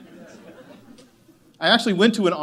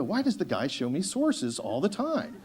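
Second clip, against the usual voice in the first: laughing mockery. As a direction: scoff at the guy through a laugh. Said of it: "he's gonna go".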